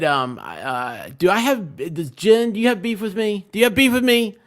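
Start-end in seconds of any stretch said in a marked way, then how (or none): 1.2-4.4 mock indignant. Real, not acted. Mock confronting chat over beef.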